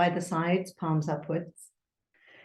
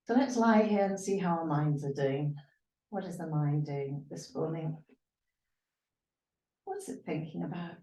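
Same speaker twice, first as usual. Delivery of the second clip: guided meditation. Real, not acted. Yoga teacher asking students to watch their minds, guided meditation. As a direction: lead them gently inward, lingering on the list.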